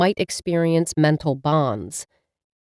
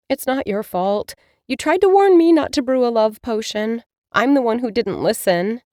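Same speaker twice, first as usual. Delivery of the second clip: higher, self-blaming; young witch; 5 semitones higher than usual. Acted. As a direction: take the blame gently. Mila comforts her cat.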